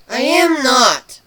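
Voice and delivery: a defensive, drawn-out snarl; snarled denial. Acted. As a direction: deny it hard, dragging the words. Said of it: "Kuno snarled".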